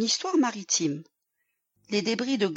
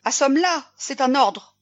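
loud, raised, red-faced command; furious order; 5 semitones higher, 6 dB louder than usual. A narrator's reading. Captain turned scarlet at his sailor, furious shouting. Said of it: "Le capitaine Olsen devint écarlate".

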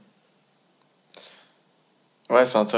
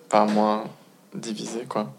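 trailing off. Real, not acted. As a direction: voice fading out mid-thought. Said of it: "j'ai oublié ce que je voulais dire". (voix qui s'éteint)

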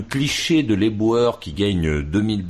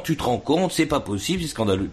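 mock outrage; 8 semitones higher than usual. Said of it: "en disant".

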